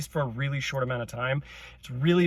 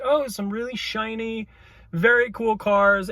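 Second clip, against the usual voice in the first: mock excited gush; 6 semitones higher than usual. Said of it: "It was cool, like".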